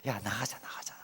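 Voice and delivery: 낮고 작게 속삭이듯; 아내를 슬쩍 불러내는 나직한 소리; 달래는 남편 흉내. Retold or imitated. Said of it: "이제 이렇게 하". (은근하고 조용하게 꾀는 말투)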